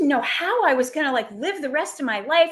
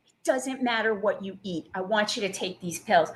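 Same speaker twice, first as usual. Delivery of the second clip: deadpan; 4 semitones lower, 4 dB quieter than usual. Retold or imitated. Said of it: "And she said it again".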